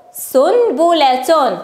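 very slow, syllable by syllable; slow sounding-out. Shown as a demonstration. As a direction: stretch the word so each sound stands out. Teacher sounds out written word.

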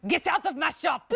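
high, haughty shopkeeper voice throwing someone out; snooty French shopkeeper. Retold or imitated. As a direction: play an offended Paris baker. Mock French baker throwing customer out.

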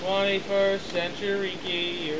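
slow corrected retake. Pretend. Slow retake after being corrected.

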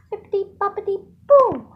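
loud sing-song spell; magic spell shout. Pretend. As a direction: cast it like a fairy. Casting a pretend magic spell.

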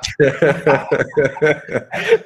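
long, real amused laugh; hearty laugh. Real, not acted. Colleague reacting to the chefe's doctorate joke, hearty laugh. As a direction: burst out laughing at the boss's quip.

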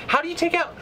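a sharp high indignant cry; outraged disbelief. Real, not acted. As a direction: protest the unfair play, cut off mid-thought. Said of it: "I'm just ranting now".

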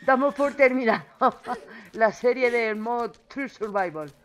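laughing loudly through words; giggling in disbelief. Real, not acted. Laughing at quick death.

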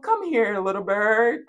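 sweet sing-song call; cooing to a bird. Acted. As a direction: coax a little bird over. Coos to a bird, acted.

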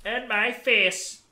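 high, drawn-out scared shout; panicked yell. Real, not acted. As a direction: yell it in terror. Panicked outburst at Bigfoot.

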